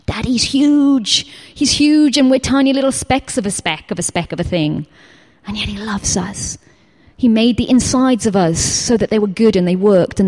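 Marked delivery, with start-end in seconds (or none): 0.1-6.6 awed wonder. Retold or imitated. Awestruck at God's size.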